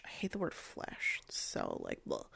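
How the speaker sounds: breathy whispered aside, no voice; hushed, grossed-out whisper. Real, not acted. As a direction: whisper it like a confession of disgust. Aside of disgust about a word.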